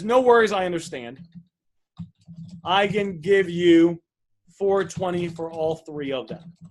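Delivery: slow, deliberate offer with each number spaced out; slow clear offer. Shown as a demonstration. Coach showing a seller how to make a clear offer, slow and deliberate. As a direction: spell out the number slowly so nothing is unclear. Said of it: "So what we wanna say is".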